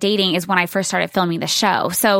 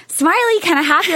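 quoting fiancé; 9 semitones higher than usual. Retold or imitated. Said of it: "your face was, like".

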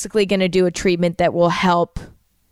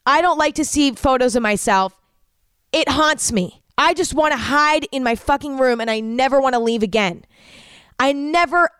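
higher, strained voice, close to breaking; upset, near tears; 3 semitones higher than usual. Retold or imitated. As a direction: let the old despair rise as you retell it. Retelling breakdown at the dermatologist.

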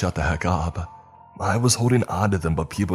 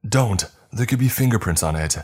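sharp warning shout, higher and louder; Robert shouting to keep Jill off the knife; 6 semitones higher, 4 dB louder than usual. Acted. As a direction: stop her hand with your voice. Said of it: "Robert shouted".

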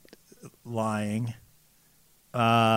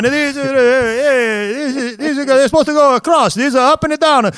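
higher-pitched mock Italian accent, scolding; 8 semitones higher than usual. Venetian blind seller scolds a customer in a hammed-up, higher Italian accent. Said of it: "I'm laughing so hard at your accent".

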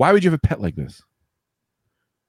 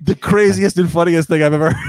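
laughing; 5 semitones higher, 4 dB louder than usual. Real, not acted. Laughing reaction to alligator story.

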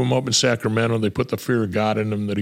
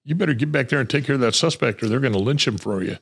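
retold angry dismissal; 5 semitones higher than usual. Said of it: "And I said".

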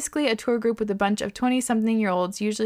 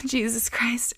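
whispering; slower than usual. Real, not acted. Shocked reaction, unvoiced.

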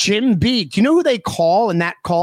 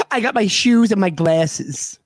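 Kyle's cousin voice. Retold or imitated. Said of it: "He sounded like Kyle's cousin on South Park".

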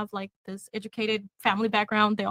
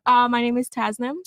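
louder, projecting her name; a little bit louder; 5 dB louder than usual. Real, not acted. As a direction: speak up and say it clearly. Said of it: "Yeah, a little bit louder".

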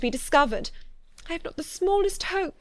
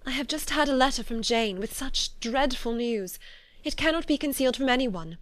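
higher, anguished voice, building louder; distressed confession; 5 semitones higher, 3 dB louder than usual. A narrator's reading. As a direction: confess dreadful news in mounting despair. Tearful confession of dreadful family news.

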